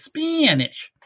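Spanish in a very high Baltimore accent. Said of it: "notice how I said that in the Baltimore accent".

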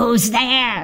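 snarled in awful witch voice. A witch lying in her house sees children arrive and asks: snarling in an awful voice. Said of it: "She snarled in an awful voice".

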